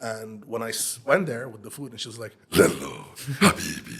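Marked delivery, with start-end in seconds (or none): 2.5-4.0 loud, thundering voice of a heavy smoker. Retelling a first meeting with a neighbor: imitating neighbor's thundering smoker voice. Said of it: "What is that thundering sound and noise?".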